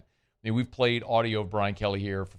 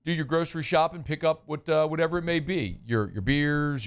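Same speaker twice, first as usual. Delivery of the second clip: upbeat radio ad read, pitched up; live ad read. Acted. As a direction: sell the grocery store like a friendly radio host. Host reads a live sponsor ad.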